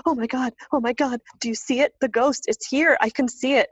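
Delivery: high, urgent retold alarm; mock panic, lightly played. Husband shaking me awake, a high alarmed cry. Husband wakes her seeing ghost.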